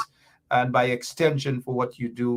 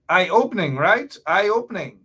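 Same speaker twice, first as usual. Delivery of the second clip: excited; 4 semitones higher, 5 dB louder than usual. Real, not acted. Host reacting to the interview.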